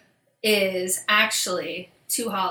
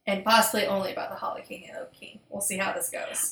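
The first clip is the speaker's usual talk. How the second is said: whispered aside; 6 dB quieter, faster than usual. Real, not acted.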